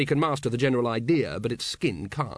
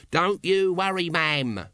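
higher, chirpy reassurance; volunteer help cheerfully; 5 semitones higher, slower than usual. A narrator's reading. Nobby offering to clean up for a lady, cheerfully. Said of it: "volunteered Nobby cheerfully".

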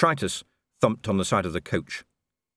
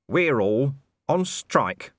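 calm; 6 semitones higher, 3 dB louder, much slower than usual. A narrator's reading. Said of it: "said Nobby calmly".

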